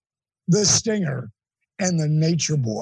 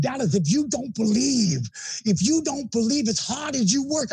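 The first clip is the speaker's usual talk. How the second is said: heated lecture; 5 semitones higher than usual. Retold or imitated. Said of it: "he was so hot".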